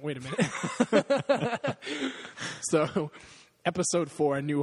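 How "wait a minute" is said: slow, high, loud, drawn-out Wait a minute; mock voice. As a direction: stretch it out like a cartoon double take. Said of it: "No, I don't".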